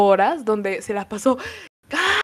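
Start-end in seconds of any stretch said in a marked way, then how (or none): 1.9-2.2 high, hammed-up wail about her husband; mock wailing. A jilted woman wailing on a long flight, mock sobbing. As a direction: imitate a heartbroken woman wailing, pitched high. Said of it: "todo el vuelo se la pasó llorando y gritando".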